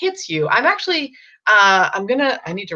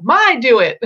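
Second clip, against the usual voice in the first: put-on higher and louder little kid; a hint of a toddler's "My do it"; 5 semitones higher, 7 dB louder than usual. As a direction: lightly mimic a toddler saying "My do it". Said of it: "if they say".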